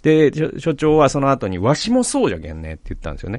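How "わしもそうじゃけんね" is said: put-on quoting the old boss in a lightly western Hiroshima-style dialect, じゃけん; the wrong dialect, a relaxed Hiroshima-style じゃけんね; slip into Hiroshima-style dialect. Quoting his old boss on the balcony, in a slipped Hiroshima-style dialect. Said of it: "三河弁で".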